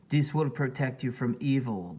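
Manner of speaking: put-on shaman blessing the guests, African accent; thick African accent. A narrator's reading. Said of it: "with his thick African accent".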